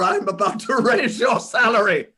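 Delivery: gleeful reveal. Acted. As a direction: let the stern build burst into delight. Scrooge springs joke on clerk.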